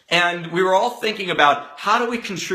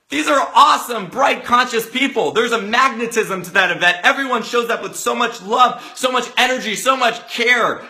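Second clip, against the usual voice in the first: gushing protest; 5 semitones higher than usual. Retold or imitated. Group gushes in protest, acted out.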